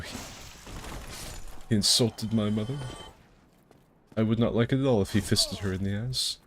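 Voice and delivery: stiff mock-German accent; unsure German accent; attempted German accent. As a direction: fumble through an offended German viewer. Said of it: "what the German accent is".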